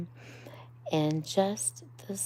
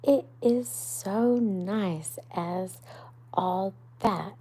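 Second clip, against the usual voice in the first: higher, louder, slow wondering question; shy Mole; 4 semitones higher, 5 dB louder than usual. Acted. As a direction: ask it timidly but amazed. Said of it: "asked Mole shyly".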